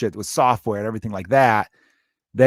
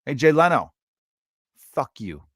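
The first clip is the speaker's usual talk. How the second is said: mock rant; 3 semitones higher than usual. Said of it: "going off on social media being like".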